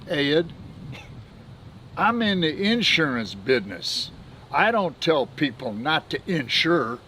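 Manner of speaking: a Texan broker drawling back at Ed; imitating a Texas drawl. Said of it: "in his Texas drawl".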